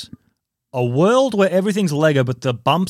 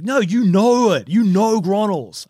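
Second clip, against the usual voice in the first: insistent customer; 4 semitones higher than usual. Retold or imitated. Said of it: "He's like".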